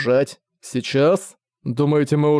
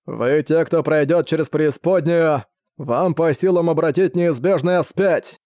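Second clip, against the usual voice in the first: roaring rallying speech. Acted. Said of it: "Его звериный рёв разнёсся над полем боя".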